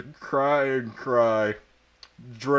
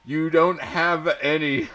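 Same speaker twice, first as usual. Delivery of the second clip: high, louder mock yell; yelled madly; 6 semitones higher, 4 dB louder than usual. A narrator's reading. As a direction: shout it back madly. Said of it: "I yelled in madly".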